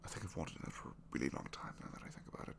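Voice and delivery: shy confession. Acted.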